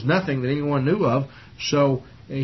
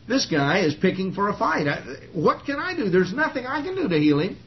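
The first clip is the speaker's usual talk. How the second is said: excited and upset; 6 semitones higher than usual. Retold or imitated. King of Israel panics over the letter, rising frantic voice. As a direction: voice jumps higher, frantic king at a loss. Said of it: "he was all excited and upset about it".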